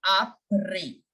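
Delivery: après ending on an open e, no S; French après with the S dropped; silent S. Shown as a demonstration. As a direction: say après as a-PRAY, final S unspoken. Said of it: "The S is completely silent".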